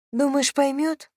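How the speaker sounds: slow, high-pitched hopeful question. A narrator's reading. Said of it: "с надеждой уточнила она". (с надеждой, медленно и высоко)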